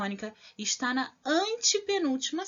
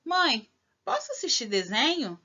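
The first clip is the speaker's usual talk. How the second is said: "Mãe, posso assistir desenho?" asked as a question to mum; question intonation. Shown as a demonstration. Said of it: "a frase interrogativa é".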